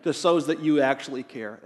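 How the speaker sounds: low, put-on poor-me voice; mock a victim fishing for attention; mock self-pity. Preacher mimicking a needy Facebook post, mock self-pity. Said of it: "barf about all the bad stuff".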